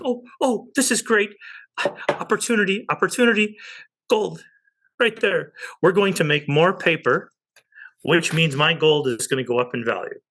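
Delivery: high, giddy mock glee over the news; gleeful investor. Investor mocking Biden's money printing with high giddy glee. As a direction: gush like a kid spotting a bargain. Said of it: "I'm like".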